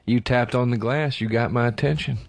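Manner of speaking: creepy villain delivering a warning; scary caller. Retold or imitated. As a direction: imitate an ominous threat, drawing it out. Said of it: "the scariest part is when he went".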